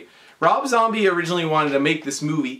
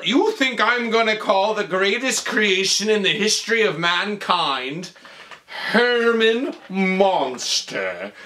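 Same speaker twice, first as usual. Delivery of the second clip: grandiose scientist; 4 semitones higher, slower than usual. Retold or imitated. Acting the grandiose doctor.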